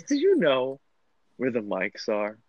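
imitating a tipsy friend's childlike question; little child. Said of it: "sounded like a little child".

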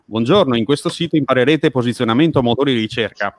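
staccato robotic keyword delivery. Shown as a demonstration. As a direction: chop it out stiffly like a robot. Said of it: "Non devo parlare come un robot".

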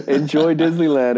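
high, bubbly theme-park greeter voice; cheery cast member. Retold or imitated. Retold Disney worker greeting guests brightly. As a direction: sell the magic, sweet and high. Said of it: "And she's like".

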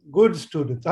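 "good" punched with a quick rise in pitch; stress on good. Real, not acted. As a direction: lean firmly on the word "good". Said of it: "I emphasize the word good".

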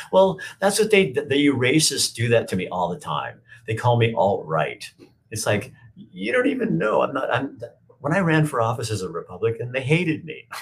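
high, laughter-laced protest; laughing while talking. Real, not acted. Streamer laughs off being called alt-right, voice high with laughter. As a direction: talk through the giggles.

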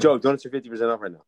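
rattled off fast; fast urgent. Acted. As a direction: rush it like a hot tip. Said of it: "tell him that".

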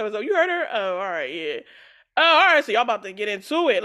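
same fake call, lightly mocked; imitating his phone chat again. Retelling his fake call a second time, lightly mocking. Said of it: "She said".

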